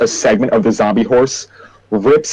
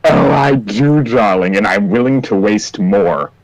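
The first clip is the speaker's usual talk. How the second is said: flamboyant Pepper. Acted. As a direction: tease him like a smug showman. Player voices Pepper character.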